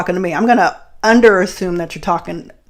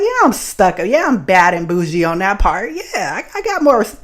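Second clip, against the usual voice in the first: bougie sass. Retold or imitated. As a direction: toss it off as she gets in the car. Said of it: "just like".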